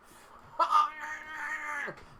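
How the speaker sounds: bright high laughing burst. Real, not acted. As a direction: break into a laugh mid-sentence. Laughing while greeting a viewer.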